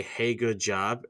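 a slow, drawn-out hey good job; hollow praise. Retold or imitated. A two-faced coworker giving slow, hollow praise. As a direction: drag out Hey good job slowly, not meaning it. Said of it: "and then wait, like, twenty minutes".

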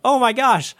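high, amazed oh my gosh; shocked. Retold or imitated. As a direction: gasp it out in surprise. Shocked recognition.

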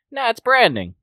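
high, loud dismissive brother; cocky brother voice. Retold or imitated. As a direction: brush it off as a brand. Other brother answers.

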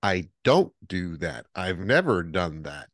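slow, insistent acted denial; deliberate, measured protest in a retelling; emphatic denial. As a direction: spell out the denial slowly. His acted denial to roommate.

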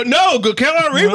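high gasping disbelief; gasp, then protest; shocked gasp. Real, not acted. Horrified at offer.

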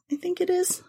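unsure little whisper; whispered aside. Real, not acted. Host doubting her own pronunciation, in a whisper. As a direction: breathe it as a side note.

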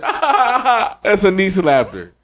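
high hammed-up laughing voice; a mock goofy classmate laughing at his own joke. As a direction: ham up the classmate's cackle and punchline. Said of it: "He said".

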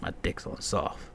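whispered worry; hushed embarrassed whisper; whispered panic. Retold or imitated. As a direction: confess it under your breath. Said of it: "I'm like".

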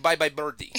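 playful put-on Russian accent; Nova, Russian accent. Dog telling of the bird's end, mock Russian accent. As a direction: say farewell as a mock Russian soldier. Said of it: "I don't know why I picked Russian".

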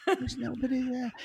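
imitated presidential stage whisper; soft, secretive impression of a politician; Trump. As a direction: drop to a hushed confiding whisper. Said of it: "he does this whisper".

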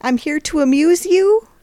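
put-on high, loud New York wise-guy accent. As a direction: needle them in a hammed-up New York accent. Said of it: "if I could do New York".

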